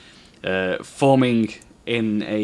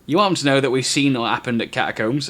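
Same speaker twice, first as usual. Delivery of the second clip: annoyed hissed rebuke; 4 semitones higher than usual. Acted. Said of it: "younger one clips him ... and says".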